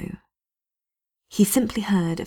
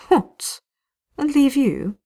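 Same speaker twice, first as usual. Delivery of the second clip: high, loud incredulous question; can't believe what she's hearing; shocked disbelief; 7 semitones higher, 3 dB louder, slower than usual. Acted. Vivian refusing to abandon Blackwall, shocked.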